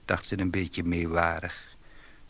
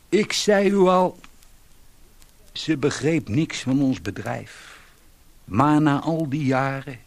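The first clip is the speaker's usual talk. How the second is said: higher, louder, pressing the point; indignant, raised voice; raised insistent voice; 7 semitones higher, 7 dB louder than usual. Acted. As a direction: insist loudly to the gentleman. Man insists to listener.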